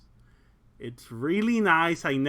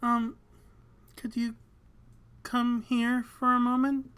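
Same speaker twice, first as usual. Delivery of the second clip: anxious voice; 6 semitones higher than usual. Acted. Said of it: "Bill's anxious voice".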